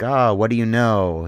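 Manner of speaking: mock interrogation, loud and drawn out; badgering goon. Goon starts questioning his tied-up captive, badgering. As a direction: lean on the question, slow and loud. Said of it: "started badgering me".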